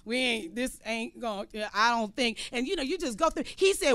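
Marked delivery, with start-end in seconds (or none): 0.0-2.4 low, hushed, worn-out doubt; weary doubt. Acted. Tired fighter doubting the battle, low and hushed. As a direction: sound tired and unsure, losing hope.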